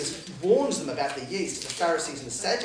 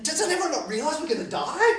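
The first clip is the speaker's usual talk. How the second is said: mock panic; 11 semitones higher, 4 dB louder than usual. Panicked flier on a plane.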